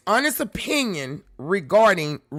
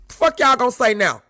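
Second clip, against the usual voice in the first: louder repeat, leaning on fuck; heated challenge; 3 semitones higher, 5 dB louder than usual. Real, not acted. Pressing the crowd a second time, loud and heated. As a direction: hit it again harder.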